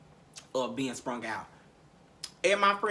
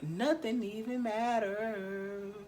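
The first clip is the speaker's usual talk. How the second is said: slow, softer, drifting words; 3 semitones higher, 10 dB quieter, much slower than usual. Retold or imitated. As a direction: let each word float out blissfully. Drug high, dreamy.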